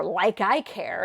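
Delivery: slow, scornful "like I care"; drawn-out eye-roll sarcasm; sarcastic. Shown as a demonstration. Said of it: "It's more a sarcastic sort of thing".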